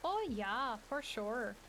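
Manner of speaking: put-on upbeat Minnesota accent, rising "oh"; drawn-out Midwestern Minnesota "oh yeah". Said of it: "Got that Minnesota accent going".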